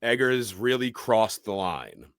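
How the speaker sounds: retold shock. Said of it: "saying to myself".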